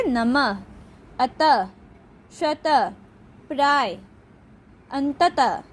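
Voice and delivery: नमः, अतः, स्वतः, प्राय, अंततः one by one with breathed h endings; visarga like h. Shown as a demonstration. Teacher giving visarga examples, h-like ending on नमः, अतः, स्वतः. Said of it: "ह की तरह से उच्चारण किया जाता है".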